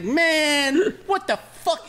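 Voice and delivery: high, incredulous yelp; mock outraged old guy. Imitating the Wawa man yelling about an old customer. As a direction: squeal it like the outraged weirdo. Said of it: "He's like".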